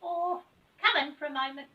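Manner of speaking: high elf voice; Silky the elf. Acted. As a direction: welcome them in sweetly.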